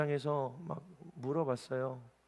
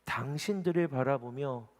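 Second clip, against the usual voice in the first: normal talking voice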